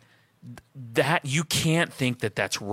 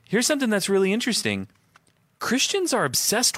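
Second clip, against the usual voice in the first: higher and fast, with fresh energy; energetic restart; 7 semitones higher than usual. Real, not acted. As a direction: relaunch the point with a burst of energy. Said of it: "Go ahead".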